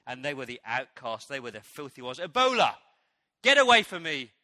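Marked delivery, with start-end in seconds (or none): 2.2-4.3 loud, raised warning cry; mock shout. People shouting at a diseased outcast, loud mock yell. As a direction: shove the sick one away with your voice.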